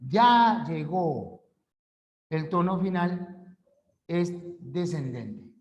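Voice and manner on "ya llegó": "ya llegó" slow, firm, falling on "llegó"; statement fall. Shown as a demonstration. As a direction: state it as plain fact. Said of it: "Es una afirmación". (afirmación con tono descendente)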